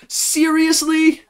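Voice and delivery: high, drawn-out shocked shriek; the whole crew screaming in shock; screamed disbelief. Acted. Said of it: "They all scream back".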